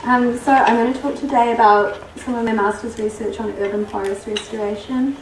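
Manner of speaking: losing voice. Real, not acted. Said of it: "I'm losing my voice".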